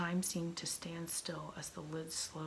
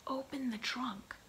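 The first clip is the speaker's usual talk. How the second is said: roared order; 6 semitones higher than usual. A narrator's reading. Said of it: "Stash roared".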